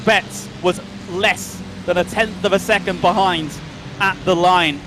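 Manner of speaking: breathless after a frantic finish; gasping a little between phrases; out of breath. Real, not acted. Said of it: "I'm out of breath, everyone".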